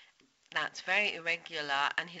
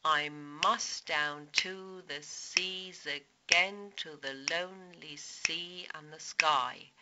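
slow, measured poem recitation; reciting the poem; slower than usual. Shown as a demonstration. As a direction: read the line out slowly, savouring the rhythm. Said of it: "in the first line we have".

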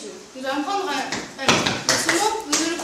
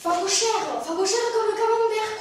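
French accent; 6 semitones higher than usual. Shown as a demonstration. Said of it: "On parle avec l'accent français".

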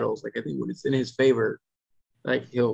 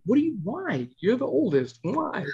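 high-pitched incredulous questioning; retold exasperation, pitched way up; exasperated parent; 12 semitones higher than usual. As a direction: plead for an explanation in disbelief. Exasperated parent questioning oldest child.

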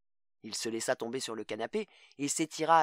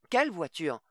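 higher, louder panicked question; 6 semitones higher, 4 dB louder than usual. A narrator's reading. Mother panics about the car, higher and louder. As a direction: blurt it in panic. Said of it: "reprit la femme prise de panique".

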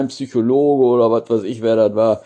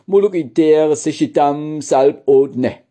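reversed sentence, slower and deliberate; backwards speech; 5 semitones higher, 3 dB louder, slower than usual. Shown as a demonstration. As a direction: repeat the reversed sentence carefully. Wiederholt den Rückwärtssatz. (langsam rückwärts gesprochener Satz)

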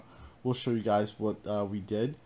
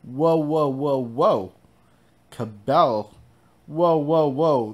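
startled whoas; 3 semitones higher, 8 dB louder, slower than usual. Real, not acted. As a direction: react in real surprise. Reacting to sudden game event.

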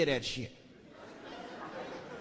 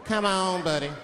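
mock obvious. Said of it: "He looked at me like I was crazy".

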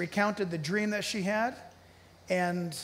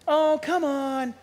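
mock scoffing; 6 semitones higher, 4 dB louder, slower than usual. Mocking dismissive reaction.

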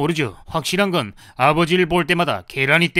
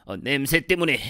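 weak, slow, fading voice; dying gasps; 8 dB quieter, slower than usual. Acted. Man overcome by someone's stench, faintly gasping his last. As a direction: choke out the words, fading into groans.

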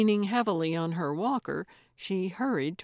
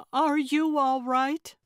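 higher, lighter voice for the actress; concerned young woman; 7 semitones higher, 4 dB louder than usual. A narrator's reading. Actress checking on fallen old woman, higher and concerned. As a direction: ask gently, a bit breathless.

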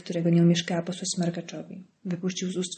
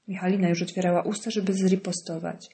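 plain reading voice

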